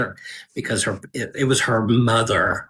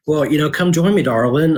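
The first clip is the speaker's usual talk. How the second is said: playfully manipulative; 5 semitones higher, 5 dB louder than usual. Retold or imitated. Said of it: "playfully manipulative with Neil".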